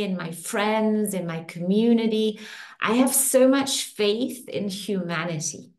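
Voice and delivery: slow, calm affirmation voice; soothing tapping-session guide; guided affirmation. Acted. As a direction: speak each affirmation as a gentle promise. Leads faith affirmations.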